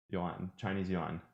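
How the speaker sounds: deliberately slow "Chinese yuan"; slow careful "Chinese yuan". Shown as a demonstration. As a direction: say "Chinese yuan" slowly, each word apart. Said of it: "you would say it faster".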